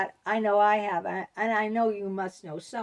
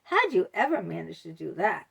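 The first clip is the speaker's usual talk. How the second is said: backhanded compliment; 4 semitones higher, 4 dB louder than usual. Retold or imitated. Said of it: "They said".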